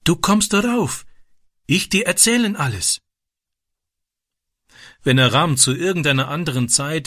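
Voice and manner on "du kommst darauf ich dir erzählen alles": lightly voiced young boy, higher; a boy speaking broken German, higher; shy boy voice. A narrator's reading.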